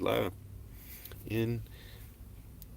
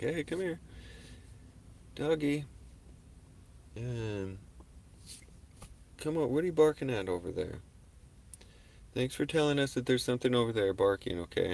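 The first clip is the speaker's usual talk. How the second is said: loving voice to the dog; 3 semitones higher, 5 dB quieter than usual. Retold or imitated. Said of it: "loving energy to them in my voice".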